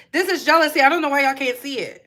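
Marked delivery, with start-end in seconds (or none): none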